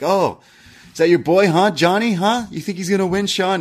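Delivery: mock rough taunting. Retelling Grayson Waller taunting Sean while walking by Gorilla, in a rough taunt. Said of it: "And kind of rough".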